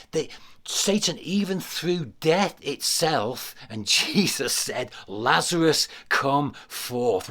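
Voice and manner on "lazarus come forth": mild, firm raised-voice command; commanding call. Acted. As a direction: call the dead man out, firmly. Acting out Jesus calling Lazarus.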